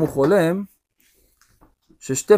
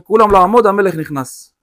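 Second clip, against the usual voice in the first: soldier's shout; 5 semitones higher, 6 dB louder than usual. Acted. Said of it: "אחד החיילים צועק".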